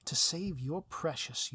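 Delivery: slow, lightly menacing villain line; a hint of drawn-out villain relish on "save". Villain lays out the terms to the hero, slow and lightly menacing.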